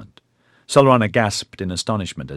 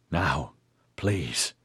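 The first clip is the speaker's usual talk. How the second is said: pleading; 4 semitones lower, 7 dB quieter than usual. A narrator's reading. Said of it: "Hakim pleaded".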